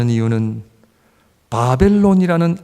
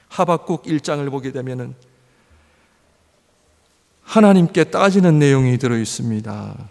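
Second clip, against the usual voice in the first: ordinary talk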